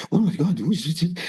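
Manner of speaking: mock crowd surprise; surprised gasp. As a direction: imitate the room reacting, lightly. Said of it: "You know, like this".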